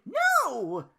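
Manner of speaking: high loud annoyed no; annoyed groan. Acted. Belle groaning at Duke's request, loud and high. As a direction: groan it out, fed up. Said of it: "groaned Belle annoyedly".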